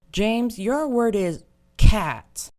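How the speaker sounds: high, very slow condescending teacher; patronizing teacher. Retold or imitated. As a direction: talk down to a slow kid.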